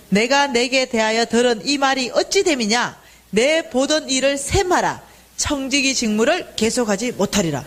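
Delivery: measured reading aloud of Bible verses; scripture reading. Acted. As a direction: read the verses out steadily for all to follow. (성경 구절을 또박또박 낭독하듯)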